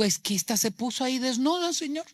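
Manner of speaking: imitating a man justifying himself; mock excuse-making. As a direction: make excuses, pitch climbing to the end. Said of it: "No se justificó, no lo explicó". (excusa fingida, subiendo el tono)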